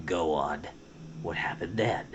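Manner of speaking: low, soft coaxing murmur. Acted. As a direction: quietly draw them out. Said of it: "he murmured".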